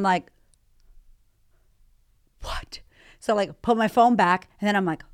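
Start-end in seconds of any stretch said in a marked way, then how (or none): 2.4-2.8 breathless whispered what; a disbelieving hushed gasp of a word; stunned whisper. Retold or imitated. Stunned by the message in shower.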